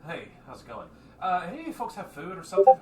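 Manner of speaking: a hungry creature pleading for food; greedy voice. Acted. Puddle begging the group for food, eager.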